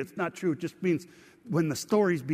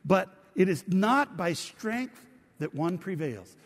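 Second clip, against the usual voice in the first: reading scripture aloud together; 2 semitones higher, 3 dB louder, slower than usual. Shown as a demonstration. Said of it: "Would you read it with me".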